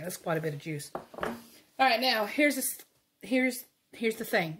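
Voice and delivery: breathless after hard stirring; out of breath. Real, not acted. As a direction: talk while catching breath. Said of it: "I'm out of breath".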